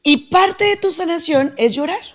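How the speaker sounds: first take pitched high with parte lifted; emphatic first take. Shown as a demonstration. Psychologist stressing to listener that "parte" of healing is crying. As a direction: put the weight on "parte" and rise on it. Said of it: "repeats it plainly".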